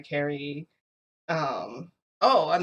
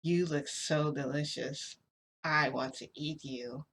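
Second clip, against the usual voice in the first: big bad wolf; 5 dB quieter, slower than usual. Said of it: "the big bad wolf is gonna eat me".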